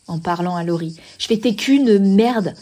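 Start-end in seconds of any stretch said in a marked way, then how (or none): 1.4-2.5 slow, loud, hammered insult; retold furious insult. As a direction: act out the insult, dragging each word. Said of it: "je disais ça en hurlant". (insulte rejouée, lente et appuyée)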